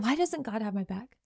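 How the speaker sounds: a half-voiced hurt complaint, almost under the breath; hurt wondering. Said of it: "you're sitting here wondering".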